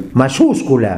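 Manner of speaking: "mayúscula" with the stress on the syllable "yús". Shown as a demonstration. Podcaster showing co-host where the accent falls, stressed Ú in "mayúscula". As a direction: lean on the Ú in "mayúscula". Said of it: "acento en la U".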